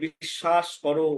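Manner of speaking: "বিশ্বাস" as bishshash, no w; everyday Bengali pronunciation. Shown as a demonstration. Teacher quoting daily speech, "বিশ্বাস" as bishshash. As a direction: say "বিশ্বাস" with doubled sh. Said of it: "আমরা বলে থাকি".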